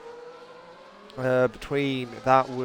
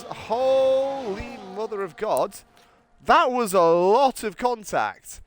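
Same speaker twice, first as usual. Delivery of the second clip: surprised; 4 semitones higher, slower than usual. Real, not acted. Awed reaction to crash.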